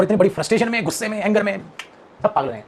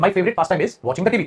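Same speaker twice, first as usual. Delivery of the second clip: slow dictation; much slower than usual. Shown as a demonstration. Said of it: "dictating the sentence".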